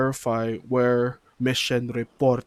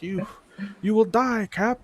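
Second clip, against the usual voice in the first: classic villain; 10 semitones higher than usual. Retold or imitated. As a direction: sneer it like a cartoon villain. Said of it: "classic villain laugh".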